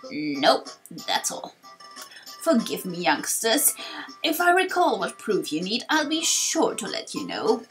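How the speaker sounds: lightly voiced old man bidding youngsters farewell; old sage, apologetic. Torkoal apologises.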